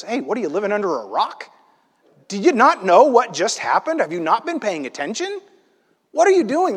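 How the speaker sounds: incredulous mock scolding, pitch jumping up; berating. Traveler scolding a clueless stranger, berating. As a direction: berate him like he's clueless. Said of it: "basically kind of berating Jesus".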